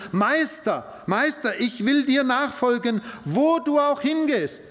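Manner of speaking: an overeager scribe begging to follow; eager disciple. Acted. Scribe to Jesus, eager and high-pitched. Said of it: "sprach zu ihm".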